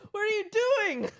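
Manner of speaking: high, incredulous cry; hammed-up horrified question; acted disbelief. Friend sees hand go back into fire, mock disbelief.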